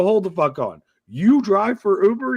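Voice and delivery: high, loud and slowed in shock; mock incredulous yell; disbelieving outburst. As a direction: hold on, you drive for Uber?!. Realising driver drives Uber.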